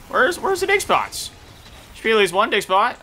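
whiny where. Real, not acted. Gamer unable to find dig spots, high whine. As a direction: stretch it out in a frustrated whine. Frustrated search.

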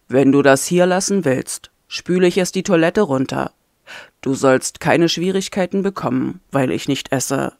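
low, firm, weary prisoner; a hint of a tired, stubborn captive; lightly voiced captive man. Ayem's voice held in story.

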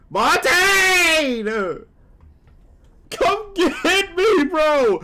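loud, high desperate calls; shouting for help. Real, not acted. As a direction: yell to a teammate to revive you. Downed, begging teammate for help.

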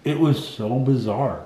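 slow, muffled by gauze; gauze in mouth. Real, not acted. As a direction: speak through a mouthful of gauze. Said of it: "so I sound funny".

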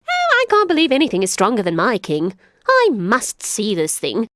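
high, laughing disbelief; mocking jackal. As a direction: tease the king sweetly. Jackal tricks lion.

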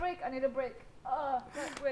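crying. Real, not acted. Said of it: "Hala, naiyak na si ate".

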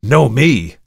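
loud, high exclamation; indignant cry. A narrator's reading. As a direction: throw it back as an outcry. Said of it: "cried Markheim".

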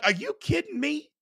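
are you kidding me, at the top of the voice; exasperated outburst. Retold or imitated. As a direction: yell it at the screen in disbelief. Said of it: "Nevada, I'm like".

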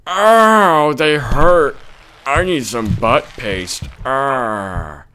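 lightly acted old man in pain; groaning grandpa. Grandpa groans about his hemorrhoids.

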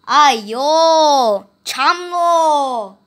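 loud dismayed cry; a mother panicking in Hindi-flavoured dismay; alarmed exclamation. Acted. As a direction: wail at the mess. Porridge floods the kitchen.

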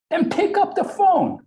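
high, loud, slow command; shouted order. Retold or imitated. Coworker ordering him to take the call, shouted across the office. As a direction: imitate an impatient yell across the office.

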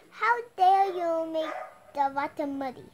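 a loud accusing bellow. Acted. Wolf bellowing at the lamb over muddy water.

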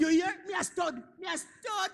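boastful shout. Acted. Boasting old man shouting.

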